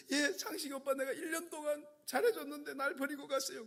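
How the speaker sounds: put-on high-pitched lament of a dumped girlfriend; jilted young woman. Jilted student complaining to her pastor, high plaintive voice. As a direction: play the heartbroken girlfriend, pitched well up.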